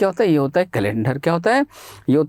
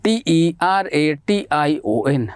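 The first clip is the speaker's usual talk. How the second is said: slow spelling out; much slower than usual. Shown as a demonstration. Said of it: "इसका spelling क्या होता है?".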